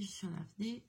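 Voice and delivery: winded, fading and breathless; wind knocked out. Real, not acted. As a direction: repeat it with no air left.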